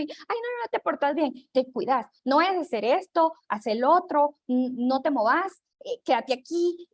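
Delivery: put-on high, fretful rush of orders to the child; nervous anxious mom. Mother fretting at drop-off, anxious and high. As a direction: fuss over the kid, all nerves. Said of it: "y mucho nerviosismo".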